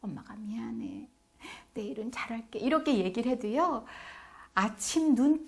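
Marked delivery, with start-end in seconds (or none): 0.0-2.6 tender night-time apology. Acted. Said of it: "머리 이렇게 쓰다듬어 주면서".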